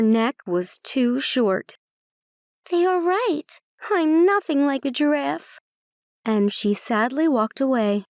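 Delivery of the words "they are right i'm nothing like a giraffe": put-on young unicorn voice. Sad unicorn voiced in story.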